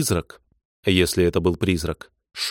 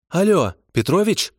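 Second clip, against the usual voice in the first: higher, officious dispatcher woman; bureaucratic voice; 10 semitones higher than usual. Acted. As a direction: chirp it like a jaded office clerk. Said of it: "насквозь бюрократический голос диспетчера".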